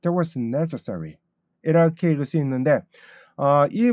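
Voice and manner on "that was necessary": slow, deliberate read of the sentence; teacher reading slowly; slow model reading. Shown as a demonstration. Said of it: "이 문장을 한번 제가 읽어보면요".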